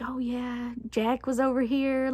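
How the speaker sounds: whispering the secret to her best friend; retold whisper. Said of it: "whispering to Melissa".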